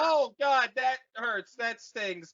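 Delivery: mock Luke in pain. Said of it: "And Luke's like".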